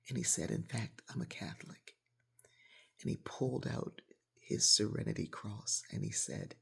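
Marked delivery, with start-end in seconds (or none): 0.5-2.0 hushed confession. Retold or imitated. Man's hushed confession, unvoiced.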